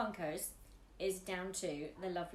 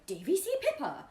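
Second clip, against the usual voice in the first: calling out; 9 semitones higher, 8 dB louder than usual. Retold or imitated. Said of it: "I suddenly heard this voice going".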